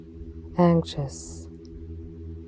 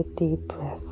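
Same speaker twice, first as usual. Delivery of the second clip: whispered breathing cue; 10 dB quieter than usual. Acted.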